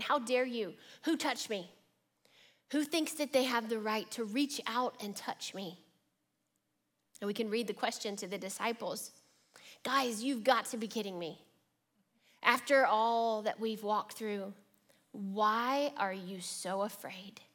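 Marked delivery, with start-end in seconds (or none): 0.0-5.8 indignant challenge, pitched slightly up; frustrated, annoyed. Acted. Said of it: "with tone of frustration". 9.8-17.4 a vein of disappointment, slowing toward the end; disappointed. Acted. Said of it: "a vein of disappointment in his voice".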